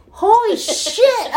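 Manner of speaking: drawn-out disbelief at the fire; shocked. Retold or imitated. Seeing the neighbor's kitchen on fire, high slow shock.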